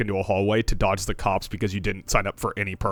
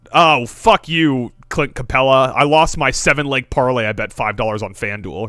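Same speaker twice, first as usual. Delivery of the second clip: imitating a sore bettor, louder at first; drawn-out mock outburst that eases off; mock yelling; 3 semitones higher, 6 dB louder than usual. Mimicking the nerdiest friend who lost a parlay, mock yell. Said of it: "where they, they yell, like".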